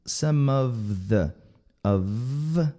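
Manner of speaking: "of" ending in a long voiced V. Shown as a demonstration. Teacher models linking for learners, buzzing V in "of". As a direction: let "of" buzz into a clear V. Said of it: "com V".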